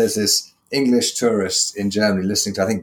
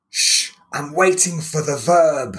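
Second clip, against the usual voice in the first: higher, slow, lightly put-on deadpan; deadpan punchline; 7 semitones higher, slower than usual. German friend explains why he is waiting, in slow deadpan. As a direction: drag it out like a patient German listener.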